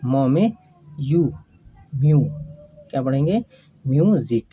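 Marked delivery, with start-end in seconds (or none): 1.9-2.2 म्यू said as "myoo"; म्यू, the यू sound after म. Shown as a demonstration. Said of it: "यू का उच्चारण यू होता है". (म्यू, यू की ध्वनि के साथ)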